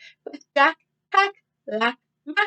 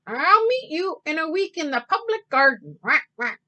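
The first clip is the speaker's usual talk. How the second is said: Mr. Mallard quacking; 5 semitones higher than usual. Acted. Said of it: "he quacked over his shoulder".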